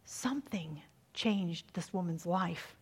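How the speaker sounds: hushed whisper. Real, not acted. Preacher hushes for a dramatic opening.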